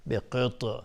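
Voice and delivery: بقطع with a bouncing echo on the ط; qalqala. Shown as a demonstration. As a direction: release the still ط in بقطع with a small bounce.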